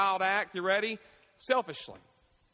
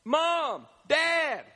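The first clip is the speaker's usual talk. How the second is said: put-on higher, pleading kid voice; child asking parents to stop for McDonald's; 6 semitones higher, slower than usual. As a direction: beg like a hungry kid.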